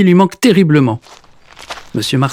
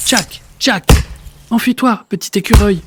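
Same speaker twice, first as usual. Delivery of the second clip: much higher warning call to the squirrel; a high, urgent warning; urgent cry; 7 semitones higher than usual. Acted. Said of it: "crie Monsieur Marcelin".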